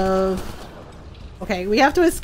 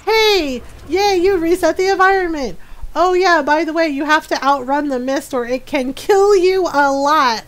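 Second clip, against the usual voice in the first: cheerful game voice; 4 semitones higher, 3 dB louder than usual. Retold or imitated. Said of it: "It's just like".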